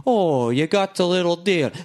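slow cartoon Scottish impression; Groundskeeper Willie. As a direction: imitate a cartoon Scot, drawn out. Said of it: "Greg Keep Willie's like".

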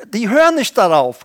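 ordinary delivery

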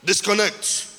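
emphatic pulpit list, building in force; insistent preaching. Real, not acted. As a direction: hammer each repeated call home. Preaches in insistent repeated calls.

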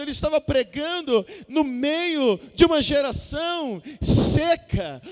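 building pulpit delivery in repeated waves; emphatic preacher leaning on key words; impassioned preaching. Real, not acted. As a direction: drive each repeated phrase home with force.

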